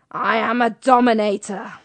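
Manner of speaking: wife Mabel boasts she's a dominator, hammed up and loud; old wife's boast. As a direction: announce it like a saucy old lady. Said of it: "and said".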